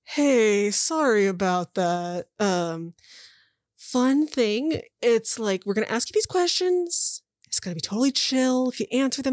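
lightly voiced chill, apologetic guy; breezy reassurance with upward lilts; awkwardly chummy captor. Captor laying out the deal to prisoners, awkwardly chummy. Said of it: "And the guy's like".

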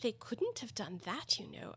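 soft, slow gentle correction. A narrator's reading. Alice corrects the Dormouse, gently. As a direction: point it out softly. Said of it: "Alice gently remarked".

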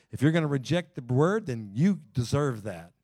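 dry sarcasm, slowed and pressed on the end; sarcastic. Real, not acted. Preacher to congregation, mocking those who reject, sarcastic. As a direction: say it with a sarcastic edge. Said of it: "There's some sarcasm".

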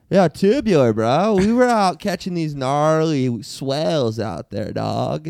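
a hint of a stoned beach bro, unhurried; surfer bro. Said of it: "Let's hear everybody's best surfer, bro".

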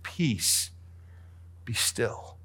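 hushed calm command; simple, quiet command. Acted. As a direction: say it plainly and gently. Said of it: "Jesus simply said".

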